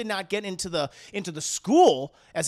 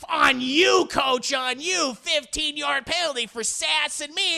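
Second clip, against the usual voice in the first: higher, louder barked call; mock stern call; 8 semitones higher, 4 dB louder, slower than usual. Referee penalizing the coach, loud mock bark.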